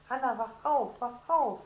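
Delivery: loud, high urgent calling; urgent wake-up call. Acted. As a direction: shake her awake with your voice. Boy wakes his sister. (Bruder weckt Schwester, laut und drängend)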